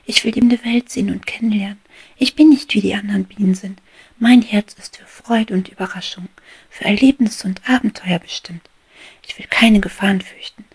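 high, loud giddy declaration; a bee drunk on sunlight, shouting her dreams; exuberant cry. Acted. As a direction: proclaim your freedom with overflowing joy. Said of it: "rief sie".

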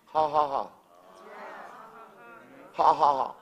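spoken ha ha ha; mock laugh. Shown as a demonstration. To the congregation, a spoken mock laugh. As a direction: say the laughs out as words. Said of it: "God up in heaven is laughing".

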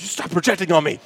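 mock angry. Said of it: "from happy to mad".

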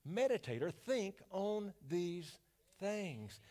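measured recitation of a verse; a gentle reading of scripture. Acted. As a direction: read it as holy words, steady. Reads scripture.

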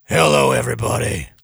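hammy slow announcer voice; mock big radio announcer. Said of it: "doing a different voice for the radio".

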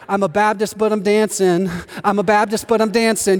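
inner joy. Retold or imitated. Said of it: "But inside, you're like".

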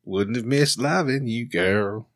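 country lyric in Australian accent. Shown as a demonstration. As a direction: recite song words as an Australian. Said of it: "I just practice singing songs in Australian".

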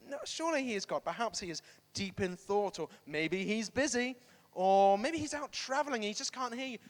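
mock-helpful suggestions with lively pitch; toying, taunting. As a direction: tease them with pretend excuses. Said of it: "He's toying with them".

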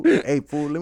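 puffed-up tough street voice; mock tough guy, chest out.

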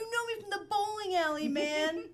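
high, loud, laid-back man tag; casual dude version. Retold or imitated. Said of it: "Now I sound like a fifties movie".

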